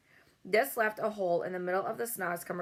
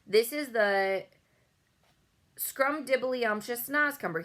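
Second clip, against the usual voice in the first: lightly voiced kindly giant, slightly higher; BFG voice; 3 semitones higher, 3 dB louder than usual. A narrator's reading. The BFG leading Bloodbottler away from Sophie, cheerful giant voice. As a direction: sell the treat with mock enthusiasm.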